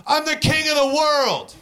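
high, hollered boast; mock wild proclamation. Stumbling stranger grabbing a passer-by, high mock holler.

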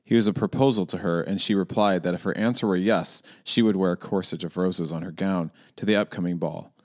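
Cole Kushner monotone. Shown as a demonstration. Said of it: "I'm gonna try to do Cole Kushner monotone".

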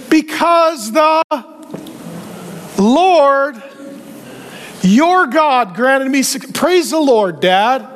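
hammed-up pious son, drawing out the holy words; mock spiritual talk. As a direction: put on religious fervor for Dad. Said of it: "he starts talking very spiritually".

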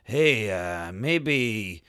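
a lightly voiced slow, smooth creep; sleazy psychiatrist. Retelling the film, the psychiatrist lightly sleazy and slow. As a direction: coax him slowly like a lightly played sleazeball. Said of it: "He's real sleazy".

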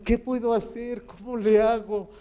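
father praying aloud for his son, pleading; pleading prayer. Retold or imitated. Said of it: "A veces digo".

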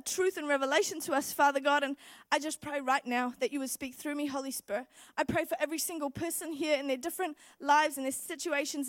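earnest preacher praying aloud; prayer. Acted. Pastor praying over the congregation before the message, earnest. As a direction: lift it up as a prayer.

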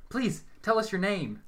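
high, loud, slow excited asking; eager plea. A narrator's reading. Medium begs the spirit for its name, excited. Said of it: "in her excitement".

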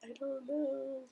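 small, high, soft helpless voice; retold helplessness. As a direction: squeak it out small, mocking your own helplessness. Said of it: "and I'm like".

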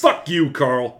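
snapping loud German boss; sudden angry outburst. Acted. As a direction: blow up at him suddenly. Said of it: "sudden outburst".

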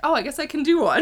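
a quick playful British accent greeting; mock British accent. Shown as a demonstration. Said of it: "like, a baseline British accent".

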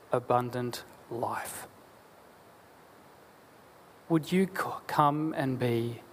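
measured, earnest prayer voice; pastor's closing prayer. Acted. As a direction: pray it aloud for the congregation.

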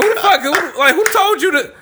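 imitating a scolding cousin; retold angry yell. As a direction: bark at them like a protective big cousin.

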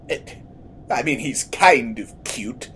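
meek little whisper; timid whisper. Acted. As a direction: shyly mutter it under breath. Timid aside by other character.

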